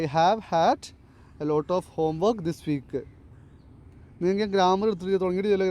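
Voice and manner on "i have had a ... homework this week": slow dictation. Shown as a demonstration. Teacher rereads example sentence slowly.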